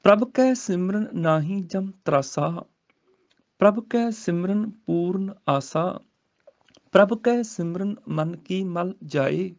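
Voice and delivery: slow scripture recitation. Shown as a demonstration. Teacher recites the verse for students, slowly. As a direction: chant the verse slowly, rising.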